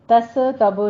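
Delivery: تس تب with stray vowels after س and ب; wrong added vowels. Shown as a demonstration. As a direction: misread تس تب as "tasa-tabo". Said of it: "نہیں کہنا".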